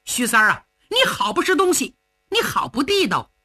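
indignant, rattling off grievances; agitated protest. Acted. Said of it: "程咬金一看就急了".

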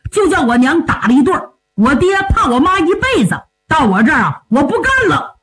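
high, worked-up complaint; indignant grumbling. Acted. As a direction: protest stubbornly against the match. Hothead rants against the proposed bride. (气呼呼地高声抱怨)

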